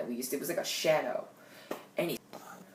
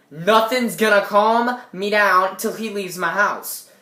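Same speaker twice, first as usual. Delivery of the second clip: slow, louder mock insistence; retold freak-out; 5 dB louder, slower than usual. Teen answering a friend who calms them, acted freak-out. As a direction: refuse to be calmed, loudly. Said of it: "So I'm freaking out".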